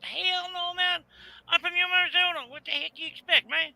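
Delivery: indignant retort. Retold or imitated. Retold argument with caller.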